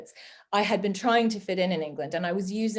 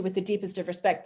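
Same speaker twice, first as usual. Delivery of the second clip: earnest Canadian respect. Shown as a demonstration. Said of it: "if a Canadian says to you".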